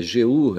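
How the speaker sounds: letters G U drawn out; spelling stressed syllable. Shown as a demonstration. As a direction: spell G U slowly. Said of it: "Onde a sílaba tônica". (soletrando G U devagar)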